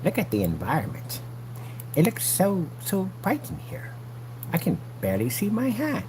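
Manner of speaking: hushed, mock-feeble complaint; mocking imitation. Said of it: "You sit in this dark environment talking about".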